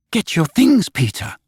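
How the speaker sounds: Wendy crying out, shaken by his look; shaking cry. A narrator's reading. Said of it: "she cried, shaking".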